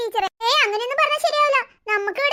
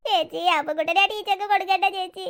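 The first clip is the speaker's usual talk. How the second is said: low, whimpering plea to sister; crying child; 4 semitones lower than usual. Acted. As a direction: beg tearfully not to be handed over. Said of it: "അവൻ കരയുന്നുണ്ടില്ലേ". (കരഞ്ഞുകൊണ്ടുള്ള താഴ്ന്ന അപേക്ഷ)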